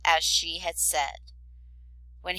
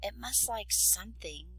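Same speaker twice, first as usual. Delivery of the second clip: whispered; 2 semitones higher, 6 dB quieter than usual. A narrator's reading. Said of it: "whispered the princess".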